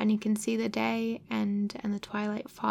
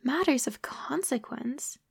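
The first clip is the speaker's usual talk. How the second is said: thunderstruck; 3 semitones higher, slower than usual. Acted. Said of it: "He stared at me, thunderstruck".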